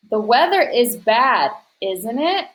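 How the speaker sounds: "isn't it?" set off by a short pause, rising at the end; pause before ISN'T IT. Shown as a demonstration. Teacher shows students where the comma goes, pausing before "isn't it?". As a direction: break briefly, then lift "isn't it?". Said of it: "Notice there's a pause here".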